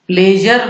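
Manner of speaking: "प्लेजर" with sounded final r; wrong pronunciation. Shown as a demonstration. Teacher warning learners off a misreading, wrong pronunciation "प्लेजर". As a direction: misread pleasure as "प्लेजर", r pronounced. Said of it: "प्लेजर भी नहीं पढ़ना है".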